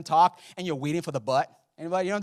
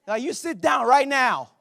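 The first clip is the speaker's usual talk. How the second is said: mock snap; 10 semitones higher, 9 dB louder, slower than usual. Men silence Caleb.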